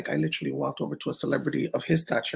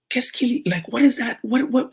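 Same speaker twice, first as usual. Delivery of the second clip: higher, mock French designer, puzzled; 9 semitones higher, 4 dB louder than usual. Designer to model after the kiss, higher, puzzled. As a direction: play the baffled designer demanding answers. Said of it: "Gaultier was like".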